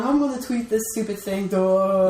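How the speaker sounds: mock dimwit. Friend doubting the celebrity tweets thoughtlessly, mock dimwit. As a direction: play a hint of a clueless tweeter.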